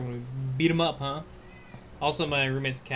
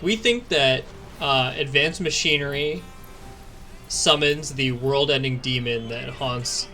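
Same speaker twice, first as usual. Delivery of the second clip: mocking quote; slower than usual. Mocking the church's logic.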